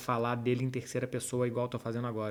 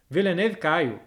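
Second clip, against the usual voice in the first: higher and louder, the name finally clicks; loud realization; 5 semitones higher, 7 dB louder, slower than usual. Real, not acted. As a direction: exclaim it as it clicks. (exclamação de quem entendeu)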